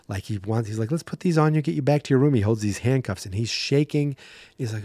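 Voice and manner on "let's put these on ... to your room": a touch of nervousness, higher; mock-scared guard coaxing someone back; acted scared. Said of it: "I actually thought of him being scared".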